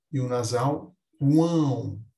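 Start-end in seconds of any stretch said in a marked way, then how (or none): 1.2-2.0 "quão" with the vowels through the nose; som fanhoso. Shown as a demonstration. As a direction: let "quão" resonate in the nostrils. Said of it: "é um som mais fanhoso". ("quão" fanhoso, com apoio das narinas)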